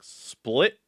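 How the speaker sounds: spilt milk said through a laugh. Real, not acted. Gamer laughing as he finds the spilt milk.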